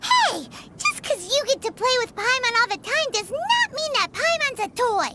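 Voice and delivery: sharp indignant cry of Hey, then a rush of protest. Acted. Paimon snaps at the boy for calling her a toy, indignant. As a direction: bristle at being called a toy.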